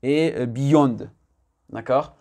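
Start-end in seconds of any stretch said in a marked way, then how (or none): 0.5-1.0 "beyond" as "bee-yonde", with a French i and rounded o; French-accented mispronunciation. Shown as a demonstration. Teacher showing French speakers' usual error, French-accented mispronunciation. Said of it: "en tant que francophone".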